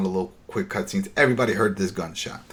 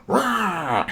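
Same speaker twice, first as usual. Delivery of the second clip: growl; 9 semitones higher than usual. Retold or imitated. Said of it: "all of a sudden".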